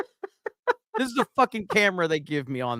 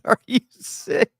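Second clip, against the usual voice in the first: reading a chat quote; 7 semitones higher, slower than usual. Retold or imitated. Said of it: "somebody said".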